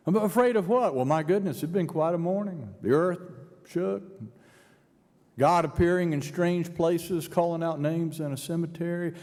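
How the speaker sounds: mock indignant disbelief; incredulous retort. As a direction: act out the frightened women answering back. Women answer, agitated retort.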